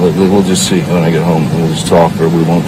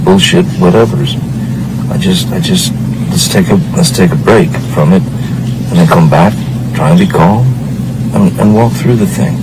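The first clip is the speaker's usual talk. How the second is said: louder, insistent refusal to keep fighting; heated, raised voice; 4 dB louder than usual. Real, not acted. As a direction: push back hard, voice raised throughout. Fight escalating, refuses to argue.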